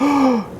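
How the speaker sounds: sharp high mock gasp of panic; nervous gasp. Speaker in a group conversation when four people look, a mock panicked gasp. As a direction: catch your breath like you've been put on the spot. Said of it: "you kind of get this like".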